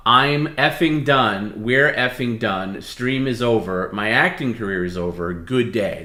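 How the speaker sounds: a hint of a slow, mock-angry DJ voice; Wolfman Jack fake voice. Shown as a demonstration. Co-host demos the line for Perry, lightly voiced mock rant. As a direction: stretch it out, half-hearted fake anger. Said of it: "you gotta do that fake voice, Wolfman Jack".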